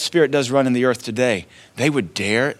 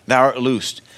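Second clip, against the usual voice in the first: "Thou art loosed" stated firmly, weight on "art"; firm declaration. Shown as a demonstration. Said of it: "a declaration".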